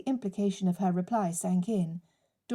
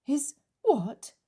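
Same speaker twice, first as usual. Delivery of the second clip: a sharp, raised "what?" of shock; stunned disbelief; 6 semitones higher than usual. Acted. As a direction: catch the breath in disbelief. Claire stunned by news.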